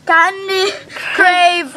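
words through a numb tongue; slurred from a numb tongue. Real, not acted. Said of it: "I can't even say it".

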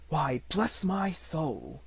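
slow, drawn-out startled exclamation; be caught completely off guard; Fred startled at his uncle's arrival; startled cry. A narrator's reading. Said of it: "cried Fred".

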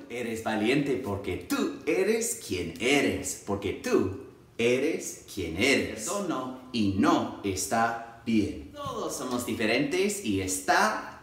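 slow, deliberate teacher affirmation; drawn-out words of encouragement; classroom affirmation. Acted. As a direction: spell it out slowly for young children. Demonstrates affirmations said to kindergarteners.

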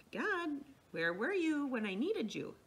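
lightly acted pleading complaint; imitated plaintive reproach. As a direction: voice someone feeling let down. Voicing a hurt believer's complaint.

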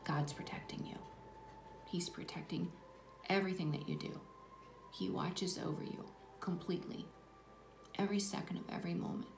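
moved, hushed reassurance; getting emotional. Real, not acted. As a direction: voice dropping as emotion rises. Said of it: "I don't know why I'm getting emotional".

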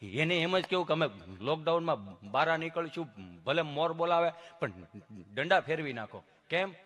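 halting protest, soft and lowish; imitated tongue-tied patient; stammering friend. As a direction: stick between phrases with humming blocks. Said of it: "જીભ જલાય, સોંટે અટકે".

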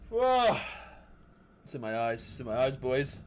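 water just hit the face; talking through a splash of cold water; sprayed with water. Real, not acted. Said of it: "that water was so cold".

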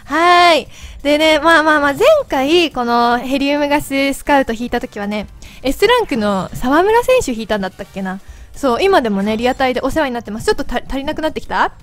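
chipmunk voice from helium. Real, not acted. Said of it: "自分で聞いてると声よくわかんない". (ヘリウムガスの甲高い声)

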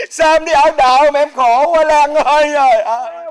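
loud, tearful stage lament. Acted. Lover bemoans her life as a servant, loud tearful lament. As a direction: wail it in pity for her.

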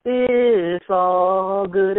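high, slow drawn-out It's all good; imitating a singer's prank call. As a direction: stretch It's all good long and high like a teasing song line. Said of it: "It was going".

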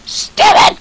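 extremely high, strangled squeak; cracked falsetto burst; frustrated squeal. Real, not acted. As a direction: squeak the word out in exasperation.

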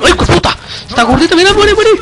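very high frantic yelps; frantic excitement. Real, not acted. Gamer fighting a zombie group, high frantic yells. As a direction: yell it out high and keyed up.

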